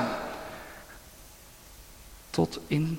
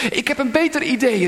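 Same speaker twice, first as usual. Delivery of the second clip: higher, louder and fast eager shout; eager call; 7 semitones higher, 4 dB louder, faster than usual. A narrator's reading. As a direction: call it out, keen to be chosen. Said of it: "riep iemand anders".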